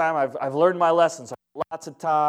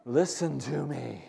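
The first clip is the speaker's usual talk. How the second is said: voice of God; much slower than usual. Retold or imitated. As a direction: speak down gently as God to a son. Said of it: "I felt like the voice of God".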